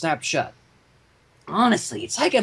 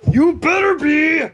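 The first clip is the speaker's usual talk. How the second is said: mock scolding; 10 semitones higher, 7 dB louder, slower than usual. Reader voices a scolding pony.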